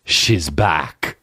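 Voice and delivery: put-on low lightly done Austrian Terminator accent; a hint of Arnold's Austrian drawl; Schwarzenegger accent. Mocking Terminator line, light Austrian accent. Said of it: "he says".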